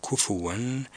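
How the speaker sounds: كفوا said kufuwan with a rounded fu; fa with damma. Shown as a demonstration. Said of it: "بضم الفاء".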